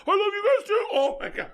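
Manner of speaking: very high, voice overcome with emotion; last goodbye pushed out through tears; choked up. Real, not acted. Dad voicing the disappearing father's farewell, overcome. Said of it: "I'm getting emotional now".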